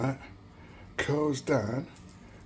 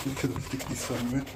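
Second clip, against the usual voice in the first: talking around a phone in the mouth; muffled, phone gripped in teeth; phone held in teeth. Real, not acted. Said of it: "Stick the phone in my mouth".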